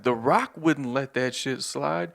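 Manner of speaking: slow, pumped-up wrestling hype; slow hyped instigator; wrestling-fan friend. Retold or imitated. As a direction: insist like a fired-up fan. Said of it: "he's like".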